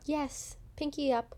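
lightly voiced prim charm-school lady; teasing as a refined princess; mock proper lady. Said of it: "charm school".

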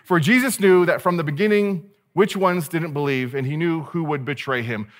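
big movie narrator, starting high and loud. Shown as a demonstration. Preacher showing how he hears John's narration, booming movie narrator voice. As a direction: project it like a film voiceover, then ease down. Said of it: "movie narrator voice".

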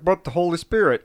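lightly voiced impression of an objector; imitating friend. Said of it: "Will's gonna be like".

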